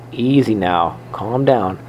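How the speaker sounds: a hint of a small hamster soothing a beast; soothing squeak. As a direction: hush him gently. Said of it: "I squeaked soothingly at the beast".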